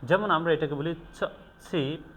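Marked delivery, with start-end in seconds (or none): 1.1-2.0 "ছ" alone, then "ছি", crisply separated; ছ sound demo. Shown as a demonstration. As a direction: show the ছ sound, then blend it into "ছি". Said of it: "কিভাবে এই দুইটা ফনেমসকে উচ্চারণ". ("ছ", তারপর "ছি" আলাদা করে স্পষ্ট উচ্চারণ)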